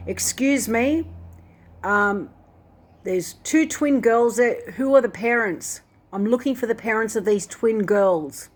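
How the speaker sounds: retold public appeal, stretched words; retold calling out. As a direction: call out for someone without really shouting. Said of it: "I'm yelling out".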